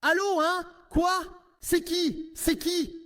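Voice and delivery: curt phone tone. Acted. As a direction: answer the phone rudely. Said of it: "tu entends l'autre ton de voix".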